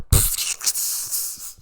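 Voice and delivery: voiceless scoffing laugh; derisive laugh. Real, not acted. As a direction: sputter a dismissive laugh with no voice. Scoffs at the played clip.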